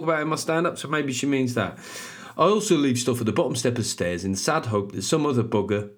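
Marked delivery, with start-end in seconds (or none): 2.4-5.9 put-on Brummie accent. Host rereading the listener's review, in a Brummie accent. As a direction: start the review again in Brummie. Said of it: "it's gonna be a Brummie accent".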